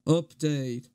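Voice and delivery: slow, measured drummer impression; deliberate, drawn-out solemn address; memorised video recital. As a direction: deliver it as a ponderous public announcement. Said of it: "I've memorized this".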